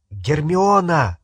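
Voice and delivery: calling out sharply; shout. Acted. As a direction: call her name to stop her. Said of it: "крикнул Гарри".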